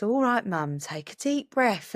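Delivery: put-on slow, soothing little-boy reassurance; calming child. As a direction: talk her down slowly like a calm kid. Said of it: "he goes".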